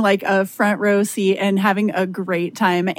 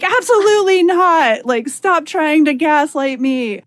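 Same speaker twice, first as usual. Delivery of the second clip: emphatic refusal; 5 semitones higher, slower than usual. Retold or imitated. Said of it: "slamming my hand down on, like, the table".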